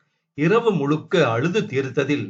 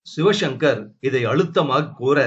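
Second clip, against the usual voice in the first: ordinary delivery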